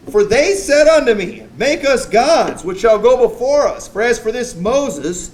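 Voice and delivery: hammed-up weak pastor pleading; whiny Aaron. Aaron's scripture plea voiced.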